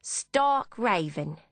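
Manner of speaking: slow, drawn-out Cockney verdict; a hint of Cockney, drawn out slowly; light Cockney cabbie, slow and dry; Cockney accent. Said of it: "in a heavy Cockney accent".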